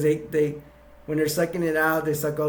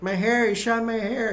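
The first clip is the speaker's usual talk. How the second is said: shocked cry; 8 semitones higher than usual. Retold or imitated. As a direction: squeal it like your hair just got shot. Princess's hair is shot.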